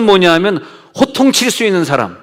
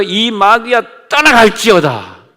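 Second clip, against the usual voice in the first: slow, drawn-out commanding rebuke, pitch raised; stern rebuke; 4 semitones higher, slower than usual. Retold or imitated. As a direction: cast the demon out with authority, slowly. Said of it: "왜 이렇게 호통을 치는 거야". (느리고 높게 호통치며 꾸짖기)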